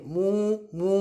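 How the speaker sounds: teacher's demonstration moo; cow moo. Shown as a demonstration. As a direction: imitate a cow mooing, one at a time. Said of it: "उसकी आवाज़ होती है".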